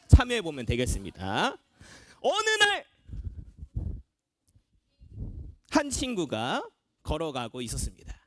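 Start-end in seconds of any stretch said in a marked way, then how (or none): 2.2-8.2 deliberate storytelling with long suspenseful pauses; story narration. Acted. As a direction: tell the tale phrase by phrase to the group. Narrates a story for the practice game. (한 구절씩 끊어 이야기 들려주듯)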